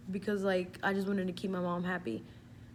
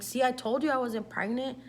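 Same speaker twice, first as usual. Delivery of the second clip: retold smug I-told-you-so, pitched higher; smart-alecky; 4 semitones higher, 4 dB louder than usual. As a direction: act out being a know-it-all, lightly. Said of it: "all smart and shit".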